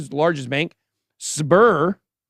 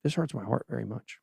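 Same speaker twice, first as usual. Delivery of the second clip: genuinely sad, near tears; 12 dB quieter than usual. Real, not acted. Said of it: "You're gonna cry?".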